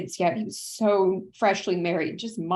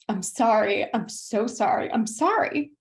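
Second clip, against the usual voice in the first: voice breaking; 3 semitones higher than usual. Real, not acted. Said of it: "oh, I'm gonna cry".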